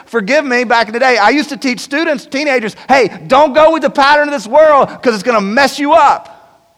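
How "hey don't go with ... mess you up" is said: imitating old youth-pastor self.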